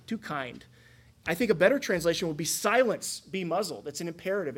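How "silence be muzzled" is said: clamp the storm shut; abrasive command. Retold or imitated. Jesus rebuking the storm, mildly abrasive. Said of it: "very abrasive, strong words".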